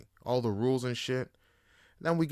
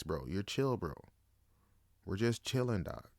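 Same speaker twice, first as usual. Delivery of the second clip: calming self-talk. Retold or imitated.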